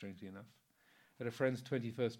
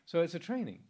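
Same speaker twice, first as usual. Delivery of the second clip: "training" punched higher and louder; stress on training; 7 semitones higher, 7 dB louder than usual. Real, not acted. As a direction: hit the word "training" hard. Emphasising precept is a training.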